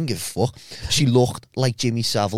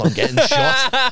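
laughing; 13 semitones higher, 5 dB louder, slower than usual. Real, not acted. Punchline of story, laughing.

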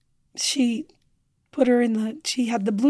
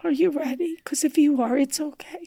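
tender reassurance; 3 semitones higher, 4 dB quieter than usual. Retold or imitated. Gentle reassurance to dying mother.

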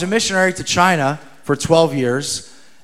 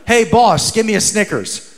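mild call into a shop, higher on "Hey"; retold yell; 3 semitones higher than usual. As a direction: imitate calling out to a shopkeeper. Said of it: "yell into a store".

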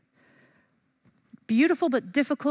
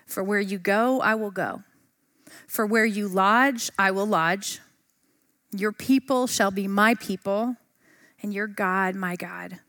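scripture reading. Acted. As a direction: read it reverently, letting each line land. Reading Ruth aloud.

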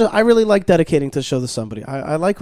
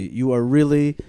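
put-on slow, heavy Russian accent; 2 semitones lower, slower than usual. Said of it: "Did you say that in a Russian accent?".

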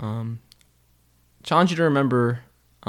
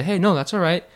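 higher, gently encouraging teacher voice; 6 semitones higher than usual. Retold or imitated. Piano teacher reassuring a student who keeps slipping up, lightly voiced and encouraging. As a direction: coax a struggling student kindly. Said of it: "she's gonna say".

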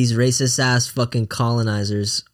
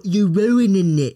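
slow, drawn-out imitation of a British accent; a lightly hammed British accent, slow; mock British accent; 4 semitones higher, slower than usual. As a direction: lampoon how British people talk. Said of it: "Why do British people".

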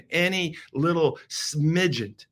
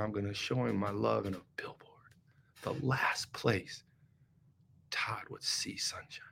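tender whisper; 6 semitones lower, 12 dB quieter than usual. Acted. God promising Todd love in a billboard, whispered. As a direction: whisper it as a loving secret.

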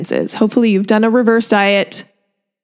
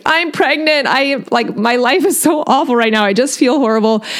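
higher, teary voice, a touch of a sob; retold sobbing; 4 semitones higher than usual. Student to professor about being sick, retold mild sobbing. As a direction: let the voice wobble as if crying again. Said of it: "I just remember just sobbing".

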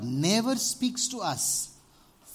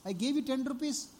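hushing scold; 9 semitones higher, 4 dB louder than usual. Retold or imitated. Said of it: "Everybody's like".

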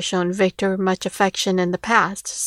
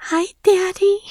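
put-on much higher, girlish greeting; little daughter voice; 10 semitones higher than usual. A narrator's reading. Daughter replies to her returned father, girlish delight. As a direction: answer high and sweet as Daddy's girl.

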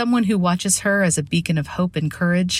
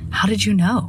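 breathy voice; 6 semitones higher than usual. Retold or imitated. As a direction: breathe the question out, caught off guard. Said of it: "in a breathy voice".

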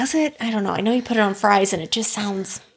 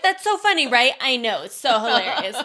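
solo podcaster playing both parts. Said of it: "You're playing two parts".

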